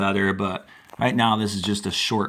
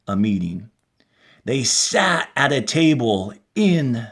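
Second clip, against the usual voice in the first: lightly expressive read-aloud voice; story narration. A narrator's reading. Teacher narrating the story for students, lightly expressive voice. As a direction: tell it like a classroom story.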